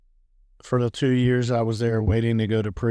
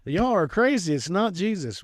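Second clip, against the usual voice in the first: pitched-up, incredulous retold protest; mock exasperation; 8 semitones higher than usual. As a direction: dismiss them with playful exasperation, voice climbing. Retold exasperation at believing friends.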